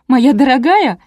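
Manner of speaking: high, loud bitter sarcasm; jealous sneer. A narrator's reading. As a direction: throw the endearment out with jealous scorn. Jealous wife sneers at the phrase. (язвительно, с ревностью)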